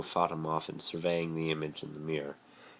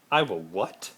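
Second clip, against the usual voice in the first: louder, higher disbelief; shocked; 4 semitones higher, 7 dB louder than usual. A narrator's reading. Harry hears he is a sex god, shocked. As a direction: squawk it in disbelief.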